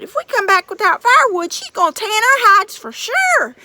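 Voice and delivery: high, loud panicky hillbilly giant; frantic giant twins. Acted. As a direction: yell and fret like a scared big lunk. Twin giants find dead brother.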